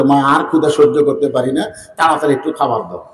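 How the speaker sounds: low, subdued child's plea, lightly acted; hungry child begging softly, hurrying at the end; imitated crying child. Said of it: "বাচ্চারা কাঁদতেছে".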